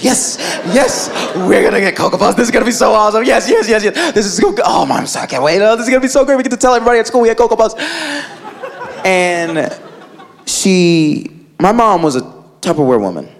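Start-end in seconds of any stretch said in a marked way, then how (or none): 0.0-7.8 put-on giddy kids. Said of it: "skipping around, like".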